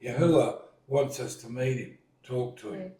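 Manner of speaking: lightly acted eager rallying of the group; retold enthusiasm, coaxing friends to come along; eager Moses. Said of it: "Moses is right into it".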